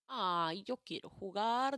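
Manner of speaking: a lightly voiced pleading little boy, drawn out; childish whine; whiny child. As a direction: beg like a bored kid. Child begs to play.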